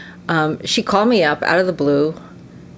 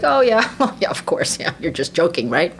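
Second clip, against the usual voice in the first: playing dumb. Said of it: "I just play a little dumb".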